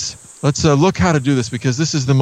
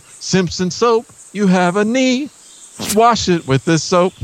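ad announcer voice; 5 semitones higher than usual. Retold or imitated. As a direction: sell it like an old TV ad. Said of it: "You remember that ad".

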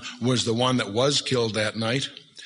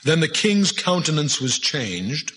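put-on slow, solemn old-English reading; preacher relishing a King James verse; 3 semitones higher, slower than usual. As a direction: savour the King James words slowly. Reads King James aloud.

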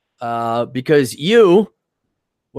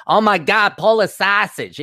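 put-on higher-pitched caricature of a Chicago accent; put-on Chicago local accent; 7 semitones higher than usual. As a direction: exclaim it in a broad, hammed-up Chicago accent. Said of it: "there's those people too in Chicago".

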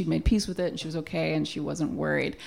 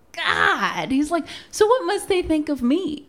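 high, loud mock panic; hammed-up horrified husband; panicked husband; 11 semitones higher, 5 dB louder than usual. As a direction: squeal the worry.

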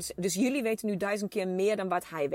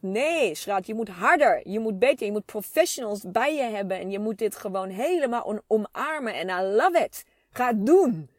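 louder, insistent pep talk from her husband; husband cheering her on; 8 dB louder than usual. Retold or imitated. Husband urging his wife to go for it, loud pep talk. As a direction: push her like a coach would, loud and sure.

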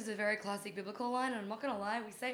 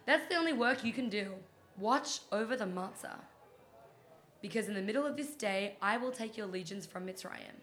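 dramatic reading. Pretend. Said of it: "It's my dramatic reading".

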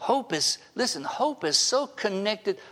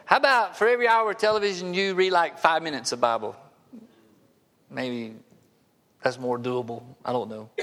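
dry sarcasm; 2 semitones lower than usual. Real, not acted. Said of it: "That sarcasm just comes out".

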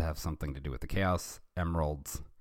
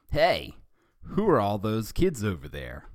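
higher, eager hero voice calling out; a lightly voiced curious Sonic; 3 semitones higher, 4 dB louder than usual. Sonic asking about the kids, lightly voiced and eager. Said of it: "Sonic said".

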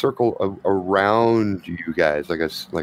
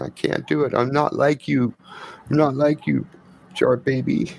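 put-on protesting child; 4 semitones higher than usual. Whisper shakes her head at Reggie, protesting child voice. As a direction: refuse like a discouraged little kid. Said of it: "Whisper's just shaking her head and saying".

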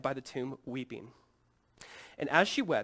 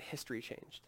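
whispered, much softer and lower; awed whisper; 4 semitones lower, 13 dB quieter than usual. Acted. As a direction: breathe it out in awe. Awed climax of the story.

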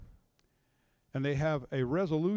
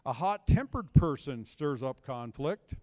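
scripture reading; 2 semitones lower, 3 dB louder, slower than usual. Acted. Reading Proverbs aloud.

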